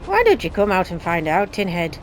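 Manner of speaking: bad Irish accent. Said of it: "That's my Irish accent, by the way, and it's really bad".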